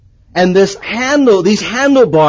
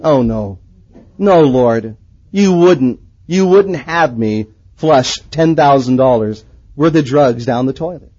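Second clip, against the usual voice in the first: low, dismayed pleading; acted reluctant plea; 5 semitones lower than usual. Man pleading with God over toilet, mock dismay. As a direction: act out a sinking, reluctant prayer.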